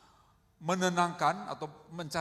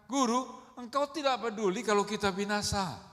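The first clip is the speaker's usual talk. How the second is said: higher, louder mock panicked plea; protes ketakutan; 6 semitones higher, 7 dB louder than usual. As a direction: act out frightened disciples protesting loudly. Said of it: "ketakutan biasanya ngomongnya ngawur". (protes panik yang diperagakan, bernada tinggi)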